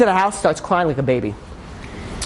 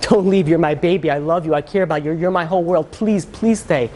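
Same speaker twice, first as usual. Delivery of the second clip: understated pleading; retold begging. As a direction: act out a mother begging her son to stay. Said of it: "begging him".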